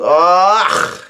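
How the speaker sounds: imitated "ugh" cry with a rasping end; Luffy's pained "ugh". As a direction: act out a strained yell. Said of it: "Luffy yells out".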